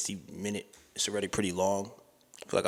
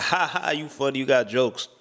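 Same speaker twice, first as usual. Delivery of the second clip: higher mock laugh, playing along; imitated laugh-off; 3 semitones higher than usual. Playing along with partner's teeth joke, mock laughing. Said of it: "I laughed about it".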